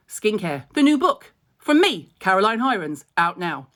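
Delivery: hammed-up advert voice, punching me. Shown as a demonstration. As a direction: sell the book like an ad. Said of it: "Can we do it with a different connotation?".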